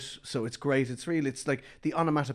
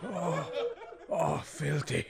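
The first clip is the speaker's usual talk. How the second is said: whispering; 3 semitones higher, 5 dB quieter, much slower than usual. Acted. Hushed illicit deal.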